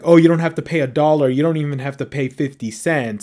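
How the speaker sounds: fast, pushy carnival barker sales pitch; salesman pitch. Retold or imitated. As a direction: rattle off the deal like a huckster. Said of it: "they start off as like".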